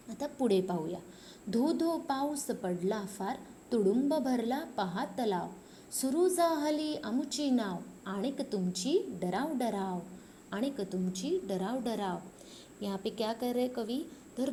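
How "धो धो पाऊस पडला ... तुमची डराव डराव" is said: singsong rhyme for a class; poem recitation. Acted. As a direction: recite the verse to young pupils. Teacher recites next stanza.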